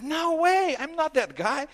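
high, loud panicked denial. Retold or imitated. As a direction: deny it loudly, cornered. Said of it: "And says".

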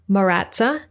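Maratza with an a in the middle; misread name. Retold or imitated. US readers getting her name wrong, misread as Maratza. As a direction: misread it as Maratza, muh-RAT-suh. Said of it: "depending on how they read their name".

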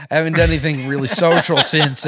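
George Bush. Acted. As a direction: chuckle and stumble through humble thanks. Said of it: "George Bush".

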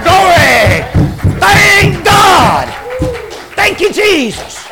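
full-force Southern preacher cadence; preaching. Acted. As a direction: preach it hard to the congregation.

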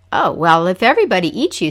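loud, fast, eager trickster; eager Coyote. Acted. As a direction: jump at the chance, quickly.

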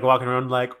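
normal talking voice

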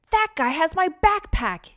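put-on high, loud boyish yell; loud, high outcry; indignant yell. A narrator's reading. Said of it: "yelled Micah".

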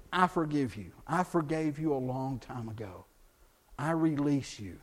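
quiet, settled, sincere release; sincere forgiveness. Shown as a demonstration. Preacher showing the right way to forgive, quiet and sincere. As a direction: let it go softly, meaning every word. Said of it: "then you can say".

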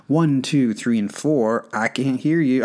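mock drill sergeant yelling cadence; drill instructor bark. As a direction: bark the count like a boot camp drill instructor. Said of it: "That was horrible".

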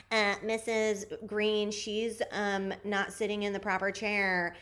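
slow, lightly voiced little tattletale; softly drawn-out mock schoolchild complaint; tattletale schoolkid. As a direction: imitate a kid primly telling on a classmate. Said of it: "that kid in elementary school that was like".

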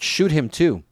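high-pitched acted command; ordering. A narrator's reading. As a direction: call out an order mid-chase. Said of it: "and ordered".

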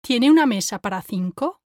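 soft unaspirated T in "Tiene"; soft Spanish T. Shown as a demonstration. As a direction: say "Tiene" with tongue on the back of top teeth. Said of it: "compare it to mine".

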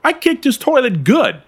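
mock the old man's slang back at him; mimicking Howard. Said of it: "Untwist your panties, Howard".

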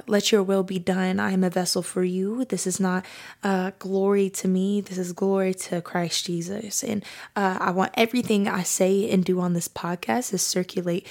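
heartfelt spoken prayer. Real, not acted. Leads an opening prayer.

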